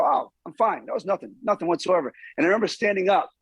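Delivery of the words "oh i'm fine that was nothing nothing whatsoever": tough it out. Retold or imitated. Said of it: "your job is to get up and go".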